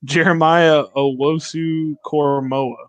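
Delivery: "Jeremiah Owosu Koromoa" sounded out slowly, syllable by syllable; careful full name. Shown as a demonstration. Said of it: "I cannot say it".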